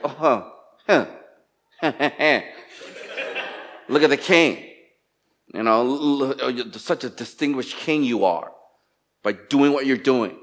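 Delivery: mocking sarcasm with a scoffing laugh; very sarcastic. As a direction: sneer at the king, laughing at him. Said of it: "she's saying it very sarcastic".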